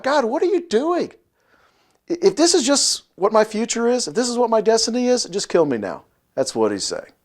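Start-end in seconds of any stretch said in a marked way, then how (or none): 0.0-6.0 high-pitched mock despair, easing down at the end; Moses crying out. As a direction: plead melodramatically with heaven. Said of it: "he's crying out to God".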